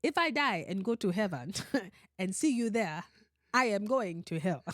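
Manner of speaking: put-on African accent, measured delivery. Shown as a demonstration. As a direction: read it with a mock African accent. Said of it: "say it in an African voice".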